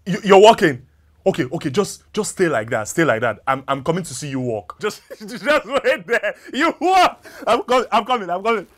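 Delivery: thrilled husband calling out; overjoyed. Acted. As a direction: burst with joy as she stands. Husband overjoyed she walks.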